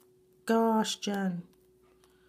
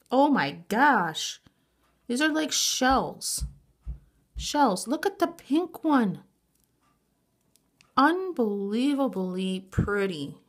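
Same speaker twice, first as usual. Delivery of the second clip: higher, louder, drawn-out delight; excited squeals; 4 semitones higher, 5 dB louder, slower than usual. Real, not acted. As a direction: gush over the shells. Excited gift unboxing.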